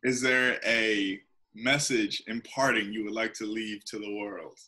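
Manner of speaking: slow, weighty dramatic question. Real, not acted. Host putting a parting question to the guest, dramatic. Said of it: "That's so dramatic, didn't it?".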